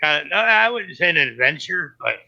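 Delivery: winded and panting between words; talking while catching your breath. Real, not acted. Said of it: "let me catch my breath".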